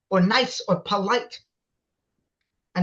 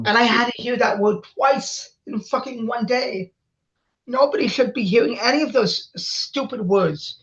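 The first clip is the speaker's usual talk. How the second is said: upset outburst; 3 semitones higher than usual. Real, not acted. Upset outburst about a slur.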